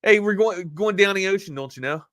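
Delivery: sing-song Baltimore "down the ocean"; playful Baltimore accent. Pretend. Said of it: "Sometimes I'll dip back into that".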